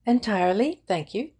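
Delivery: Mary's curt, emphatic reply; said with emphasis. A narrator's reading. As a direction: lean hard on "Entirely". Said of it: "with emphasis".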